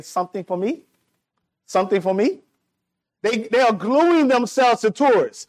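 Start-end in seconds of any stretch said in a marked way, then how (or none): 0.0-2.4 pyramid hustlers. Retold or imitated. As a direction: lightly imitate a hopeful ask, voice lifting at the end. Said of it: "they look at you and say".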